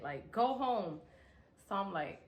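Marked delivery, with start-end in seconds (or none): 0.3-1.0 big sister order. Retold or imitated. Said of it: "on some big sister shit".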